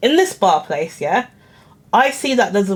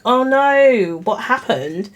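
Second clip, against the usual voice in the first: unconvincing concern; 2 semitones higher, slower than usual. Retold or imitated. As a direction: feign concern, not very convincingly. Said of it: "I said it in a much more, like, convincing way than that".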